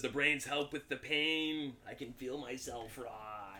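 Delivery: slow, fading zombie voice. Acted. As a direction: speak slowly like a rotting corpse. Voicing the zombie's answer.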